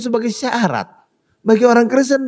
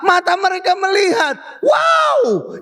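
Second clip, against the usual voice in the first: amazed outcry; 9 semitones higher, slower than usual. Acted. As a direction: shout it like you saw a miracle. Family amazed by healing.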